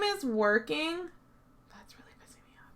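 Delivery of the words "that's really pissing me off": whispered irritated aside; annoyed whisper. Real, not acted. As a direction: mutter it under your breath, annoyed. Annoyed muttered aside at glitch.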